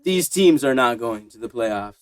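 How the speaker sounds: lightly voiced slow TV hype, then deflated; slow mock announcer build-up falling away; mock football promo.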